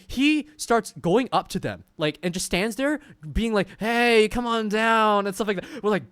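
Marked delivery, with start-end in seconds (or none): 3.8-5.3 put-on creepy drunk come-on. Drunk friend calling up to girls.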